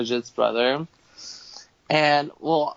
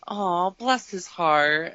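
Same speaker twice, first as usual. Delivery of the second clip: put-on sweet old lady; 4 semitones higher, much slower than usual. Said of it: "and she goes".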